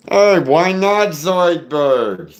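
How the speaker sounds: very slow, high throaty cartoon voice; Zoidberg. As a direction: call it out from the back of the throat, stretched. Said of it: "and you got Zoidberg".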